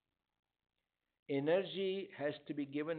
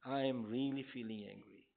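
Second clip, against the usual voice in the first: calm, steady, spoken aloud, softer and lower; 5 semitones lower, 3 dB quieter than usual. Shown as a demonstration. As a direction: state the anger plainly and calmly. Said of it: "It's a very calm voice".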